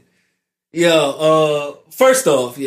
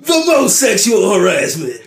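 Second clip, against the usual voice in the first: monster truck ad. Pretend. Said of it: "Sounds like a monster truck rally".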